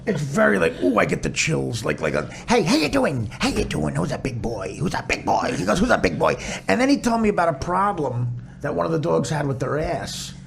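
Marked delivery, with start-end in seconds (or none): 2.5-6.3 imitating doggy voice. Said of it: "hearing him do his doggy voice".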